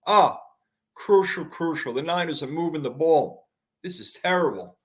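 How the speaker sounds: breathless after yelling; out of breath. Real, not acted. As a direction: talk while catching your breath. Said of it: "do I sound like I'm out of breath".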